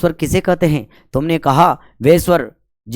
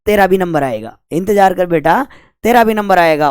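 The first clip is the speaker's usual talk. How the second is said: teasing taunt. Retold or imitated. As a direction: taunt the waiting one playfully. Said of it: "लेकिन हम यूँ कह रहे हैं". (छेड़ते हुए, बढ़ती आवाज़ में ताना)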